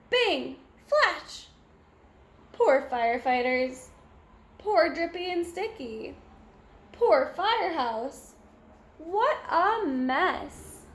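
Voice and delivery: usual speaking voice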